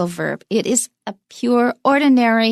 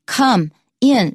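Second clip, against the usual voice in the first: "come" and "in" each stressed, split by a pause; both words stressed; 3 semitones higher, 3 dB louder than usual. Shown as a demonstration. Teacher proving both words carry stress, "come", "in". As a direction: give "come" and "in" a full beat apiece. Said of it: "两个都有重音".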